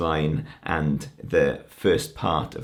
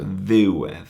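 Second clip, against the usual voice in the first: "ddiwedd" stressed on its opening "ddiw"; stress on first syllable; 3 dB louder than usual. Shown as a demonstration. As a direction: punch "ddiw" and ease off on "edd" in "ddiwedd". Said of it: "The accent is on the ddiw".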